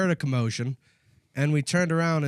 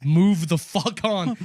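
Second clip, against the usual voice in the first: retold angry yell; 2 semitones higher, 4 dB louder, much slower than usual. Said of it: "screaming in his face".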